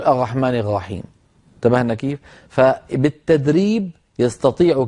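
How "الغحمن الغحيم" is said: "الرحمن الرحيم" with ر gargled as غ; defective ra. Shown as a demonstration. Teacher imitating a habit that training can cure, "الرحمن الرحيم" with ghayn for ra. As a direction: turn both r sounds in "الرحمن الرحيم" into ghayn. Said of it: "شبيهة بحرف الغين".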